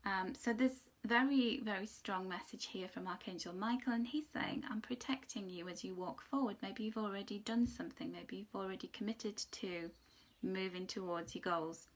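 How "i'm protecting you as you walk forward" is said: soft reassurance. Acted. Angel's reassurance voiced softly.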